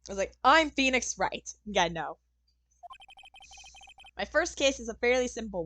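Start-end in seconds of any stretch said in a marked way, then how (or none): 0.4-1.5 slow, louder heroic lawyer voice; a hint of confident hero lawyer; Phoenix Wright voice. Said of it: "no way I could do Phoenix's voice".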